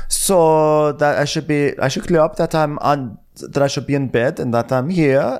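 a light imitation of an offended woman; Diana. Host voicing Diana answering Sutton, mock indignant. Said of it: "So Diana's like".

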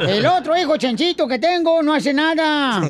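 lightly pompous campaign orator; mock politician rallying the crowd; booming balcony speech. Mock candidate speech continues. (discurso de candidato pomposo)

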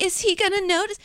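high-pitched mock furtive question; imitating a sneaky backward check; sly, furtive worry. Woman imitating someone slyly checking a follower, high and furtive. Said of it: "slyly turn around and be like".

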